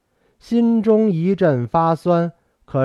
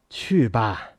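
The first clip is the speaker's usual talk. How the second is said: softer, lower, mild voice; low, soft and kindly; gentle; 6 semitones lower, 5 dB quieter than usual. A narrator's reading. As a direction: let it go softly and gently. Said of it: "他的声音像平日那么柔和了".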